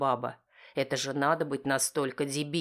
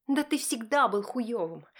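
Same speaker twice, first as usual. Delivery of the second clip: wife shouting; 9 semitones higher than usual. Acted. Wife shouting at husband, high and furious. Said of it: "кричит Ларка в ответ".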